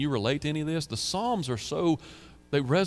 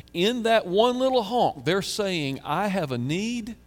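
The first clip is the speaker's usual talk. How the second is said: lifted earnest voice; 7 semitones higher, slower than usual. Pretend. Voicing the honker's faith.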